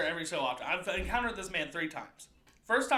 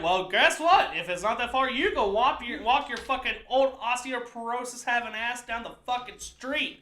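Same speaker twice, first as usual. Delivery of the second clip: worked-up mock telling-off; indignant retort; 5 semitones higher, 3 dB louder than usual. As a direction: fire back in exaggerated outrage. Acted angry retort to stranger.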